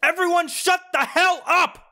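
loud furious shout, rising high. Real, not acted. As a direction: blow up at the whole table. DM loses it at table.

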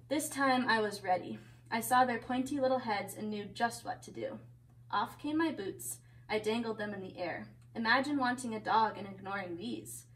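lively picture-book reading; story narration. A narrator's reading. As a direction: read a story to children.

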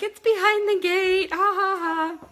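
high, loud gleeful taunt with mock laugh; imitated hard laughing. Husband revealing his prank to friend, imitated laughing. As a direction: crow it through pretend laughter. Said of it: "he's laughing so hard".

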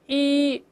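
一 clipped short with a slightly wider mouth; a short 一 like counting; short i vowel. Shown as a demonstration. Teacher contrasting the short vowel for students. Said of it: "不是一，而是报数那个一".

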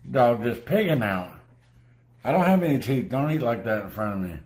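grumpy scolding of a greedy dog; irritated. Real, not acted. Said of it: "I wasn't in a good mood".

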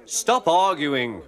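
grumbling passengers. Acted. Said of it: "grumbled the passengers".

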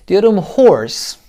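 whispered "horse" with a breathy "h"; teacher whispering the word. Shown as a demonstration. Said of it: "H ile başlıyor".

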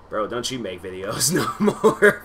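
slow, teasing through a laugh; laughing jab. Retold or imitated. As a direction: tease his old self, laughing. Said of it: "I'm like".

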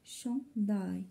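شونداي broken into two syllables. Shown as a demonstration. Teacher counting two syllables, syllable by syllable. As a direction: pause between the two halves of شونداي. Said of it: "Deux syllabes".

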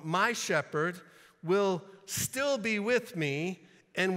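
loud, deliberate, with STILL and CIRCUMVENT punched; emphatic re-reading. Real, not acted. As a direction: break it into weighty phrases, stressing "still". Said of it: "Let me read that again".

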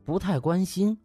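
plain reading voice

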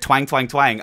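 put-on playfully twanged country accent; teasing, twangy country voice. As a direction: lean into the Southern twang. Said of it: "I have a little twang".

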